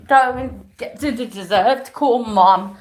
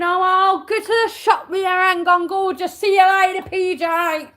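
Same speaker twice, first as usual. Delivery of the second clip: higher, sing-song mocking impression of the boyfriend sweet-talking another girl; 5 semitones higher than usual. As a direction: sneer at him by parroting his smooth talk. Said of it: "And then find the next girl going".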